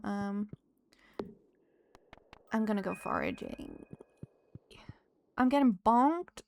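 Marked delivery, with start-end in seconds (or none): 5.4-6.4 sudden breathy whispered yelp. Real, not acted. A gamer whispers as her character gets hit. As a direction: hiss it out as you get hit.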